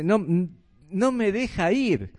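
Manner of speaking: a hint of a kid pleading helplessness, slowly; como un chico. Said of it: "como un chico". (excusa de chico, lenta y levemente burlona)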